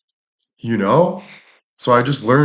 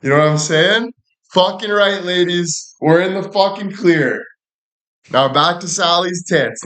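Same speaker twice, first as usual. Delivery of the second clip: triumphant hype; 8 semitones higher than usual. Acted. Celebrating he's off the hook.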